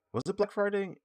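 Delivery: high, puzzled self-question; unsure question. Real, not acted. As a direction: ask it high as if half remembering. Unsure recall of sale date.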